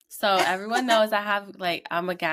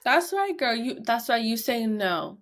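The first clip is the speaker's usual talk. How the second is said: high, bright-voiced mock cheer; high-pitched praise; 6 semitones higher than usual. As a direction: squeak it up like cheering a toddler on. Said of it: "I'm like".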